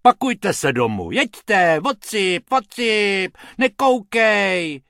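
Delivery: high, loud gruff shooing; a slow, drawn-out nekoukej at the end; grumpy scolding. A narrator's reading. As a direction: shoo them away crossly. Grumpy man chasing rabbits off.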